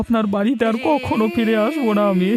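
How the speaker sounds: crying. Acted. Grandson driven out by the headman, leaving in tears. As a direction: speak through tears as you leave.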